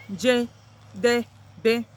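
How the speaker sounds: Njedebe said as four clear syllables, nje-de-be drawn out; careful four-syllable Njedebe for learners. Shown as a demonstration. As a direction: spell out Njedebe slowly by its syllables. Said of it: "I got four syllables here".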